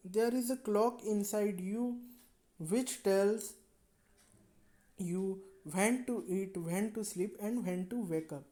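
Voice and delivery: very slow, careful read-aloud; story reading. A narrator's reading. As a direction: read it slowly to the class. Reads English story text.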